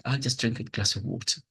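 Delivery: quick, apologetic throwaway line. Shown as a demonstration. Teacher showing the nature of this phrase, apologetic. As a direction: say it fast, as if excusing yourself.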